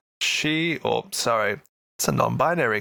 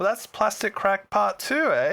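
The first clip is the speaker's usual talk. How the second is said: high-pitched Canadian lilt rising into "eh"; put-on Canadian, pitched up; Canadian slang; 9 semitones higher than usual. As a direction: let a playful Canadian "eh?" slip out. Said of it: "When Canadian came out then".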